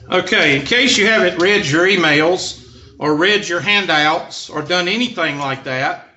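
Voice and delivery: mock-scolding sarcasm at the class; dry teasing jab; sarcastic. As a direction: needle the ones who skipped the reading. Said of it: "that's supposed to be sarcastic".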